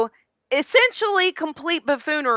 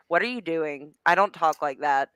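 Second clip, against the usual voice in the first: deadpan; 4 semitones lower, 4 dB quieter than usual. Retold or imitated. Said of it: "real normal deadpan".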